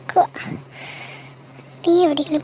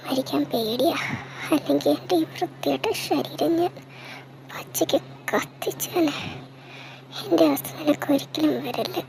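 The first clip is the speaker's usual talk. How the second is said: hushed despair; 5 dB quieter than usual. Acted. Despairing confession to Neha.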